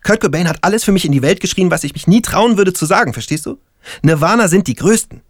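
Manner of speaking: a fan who can't believe what he hears; young stoner Lennart. Acted. Lennart voiced, raving about a band.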